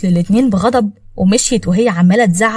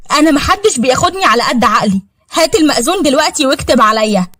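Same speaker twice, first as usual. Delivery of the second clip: indignant demand; 5 semitones higher than usual. Acted. Rival demands marriage at once.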